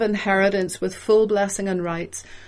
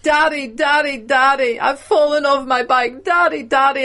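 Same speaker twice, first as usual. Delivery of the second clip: higher, lightly voiced child calling daddy; imitating a child; 5 semitones higher, 3 dB louder than usual. Preacher imitating a child who fell off his bike, calling. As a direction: tug at the listener like a hurt kid. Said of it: "when your kids come and they're like".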